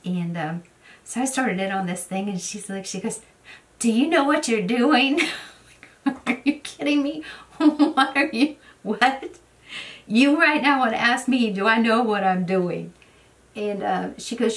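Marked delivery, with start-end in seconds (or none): 3.8-5.2 high, loud anxious question; worried question. Retold or imitated. Friend worriedly asking during goat surgery, high anxious question. 6.1-12.9 high, loud laughing disbelief; exasperated. Retold or imitated. Telling her friend off mid-surgery, loud laughing exasperation.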